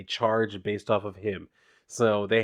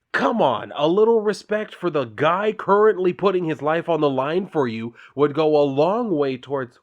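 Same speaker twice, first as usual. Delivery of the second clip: retold angry rant, louder and higher; steamed rant; 4 semitones higher, 4 dB louder than usual. Superhero ranting at the film director, hammed-up angry rant. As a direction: rant at the director, building heat. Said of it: "He goes on this whole rant saying".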